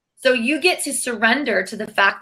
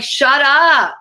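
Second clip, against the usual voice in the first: mock snapping back; 4 semitones higher than usual. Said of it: "And I'm like".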